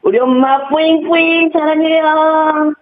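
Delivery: high, slow cutesy aegyo cheer; breathy cutesy giggly. Pretend. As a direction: coo it like a sweet baby cheer. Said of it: "기합 우리 엄마 화이팅! 뭐 이런 거 하나 외치고".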